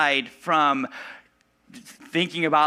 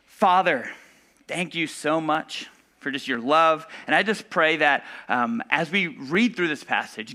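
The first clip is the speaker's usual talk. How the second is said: prayer. Acted. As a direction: pray over them gently. Pastor prays for the congregation.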